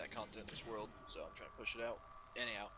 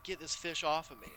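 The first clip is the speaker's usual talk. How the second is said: higher, louder yell of "Get this fish off of me"; retold yell; 6 semitones higher, 5 dB louder than usual. Teen yelling at a biting fish in the game, retold loud. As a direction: replay the panicked shout at the fish. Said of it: "I basically yelled".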